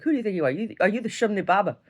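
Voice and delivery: grandma's challenge. Retold or imitated. Voices grandma's teasing challenge.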